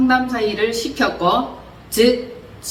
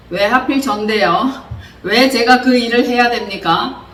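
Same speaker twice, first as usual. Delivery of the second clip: mock protest. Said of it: "반론을 제기했었습니다".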